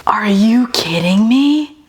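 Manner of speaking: hushed, amazed whisper; whispered disbelief. Real, not acted. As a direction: breathe it out in awe. Reacting to the bread smell.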